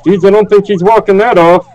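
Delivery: put-on stereotypical old man rambling; lightly voiced confused grandpa. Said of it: "the confused old man around the server".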